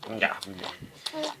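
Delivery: mouth noise demo. Shown as a demonstration. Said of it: "Ó, assim, ó".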